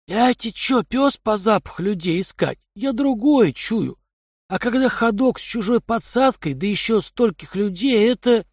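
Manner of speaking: a streetwise thug scoffing; gruff thug voice. Acted. Kai's voice in dialogue.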